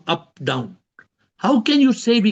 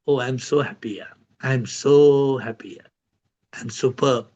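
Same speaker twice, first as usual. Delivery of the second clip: content self-talk; 5 semitones lower than usual. Shown as a demonstration. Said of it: "How to tell yourself".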